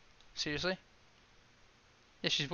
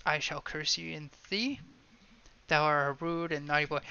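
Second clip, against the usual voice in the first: quiet curse; 5 dB quieter, faster than usual. Pretend. Witch threatening the trappers, a soft curse. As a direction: say the curse softly, almost to yourself.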